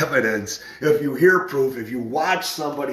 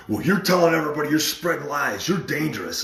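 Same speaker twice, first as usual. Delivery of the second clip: rapid, higher-pitched accusations; verbal attack; 4 semitones higher, faster than usual. Retold or imitated. Friend accusing the speaker of spreading lies, verbal attack. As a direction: imitate someone firing off accusations. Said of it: "He's like, just attack".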